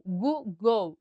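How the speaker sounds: "Google" with the GLE sounded as O; "Google" slowly shown as "goo-gow"; final-syllable demo. Shown as a demonstration. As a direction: say "Google" ending in a clear "gol-oh" sound. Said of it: "G L E tem som de O".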